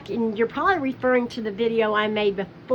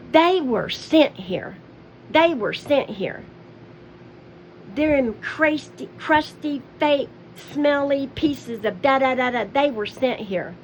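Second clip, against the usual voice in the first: mock muttering Candy. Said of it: "Then you'll go".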